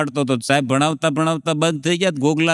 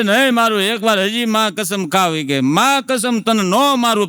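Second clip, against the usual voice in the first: insistent teacher; 5 semitones higher than usual. Retold or imitated. Teacher swears not to hit.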